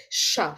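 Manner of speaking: isolated "sure" syllable with an English sh, as ending "controversial"; English sh sound. Shown as a demonstration. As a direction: model "sure" as a clear "shuh". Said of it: "Em muốn tạo ra âm sờ trong tiếng Anh".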